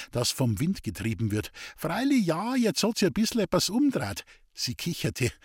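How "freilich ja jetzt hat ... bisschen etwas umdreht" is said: put-on sly gossipy old woman. A narrator's reading. Scheming mother voiced in story.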